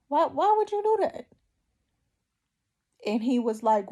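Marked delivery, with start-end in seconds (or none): 0.1-1.3 high, strained plea to God, much higher; anguished cry. Retold or imitated. Mother asking God why twins, anguished high cry. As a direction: cry it out as if begging heaven.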